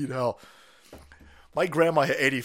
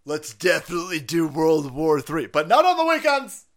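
mock Biden calling Putin; 2 semitones higher, 6 dB louder, slower than usual. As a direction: bluster at Putin. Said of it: "gonna call Putin and say".

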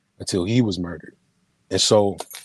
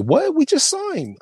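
much higher, stunned cry of disbelief; shocked disbelief; 4 dB louder than usual. Retold or imitated. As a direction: gasp it out like the news can't be true. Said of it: "He's like".

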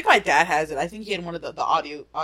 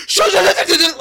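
high mock yell of an angry dad; shouting dad snapping at his kid; 13 semitones higher, 11 dB louder than usual. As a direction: yell it like a dad who can't hear the TV. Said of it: "he flips out".

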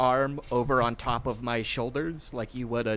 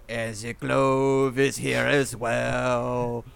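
drawn-out announcement; 3 dB louder, much slower than usual. Acted. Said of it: "and I go".

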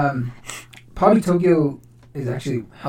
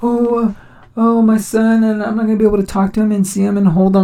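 convicted officer's mother lamenting; 5 semitones higher than usual. Retold or imitated. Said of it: "And his mom came on".

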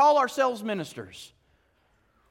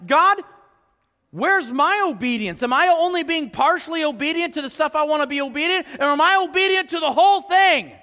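raised, pleading prayer; earnest self-examining prayer; 4 semitones higher, 3 dB louder than usual. Retold or imitated. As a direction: ask God straight out, pressing. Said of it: "this is like".

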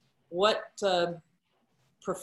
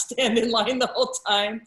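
laughing; 5 semitones higher, 6 dB louder than usual. Real, not acted. Laughing about skipping the line.

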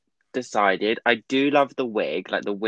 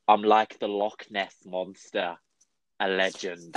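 weak attempt at a Scottish accent; slow, poor imitation of a Scottish accent; failed Scottish accent; slower than usual. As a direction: quote it in half-hearted, unconvincing Scottish. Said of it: "I can't do Scottish".

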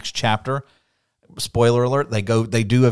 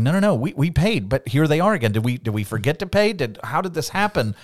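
higher, anxious mock panic of worried brothers; panicked brothers; 3 semitones higher than usual. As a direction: brothers finding silver in their sacks, mildly voiced panic.

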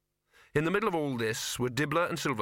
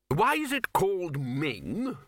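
prompted question; 8 semitones higher, slower than usual. A narrator's reading. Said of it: "on cue".

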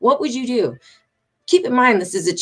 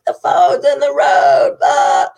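slow, loud shout; loud slow retold warning; yelling warning; 7 semitones higher, 6 dB louder, slower than usual. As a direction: shout it across the road, slowly. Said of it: "And I was like".

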